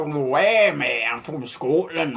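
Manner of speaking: lightly attempted Scottish accent; rough, jokey Scottish accent; mock Scottish accent. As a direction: have a go at sounding Scottish. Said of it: "Welsh or Scottish?".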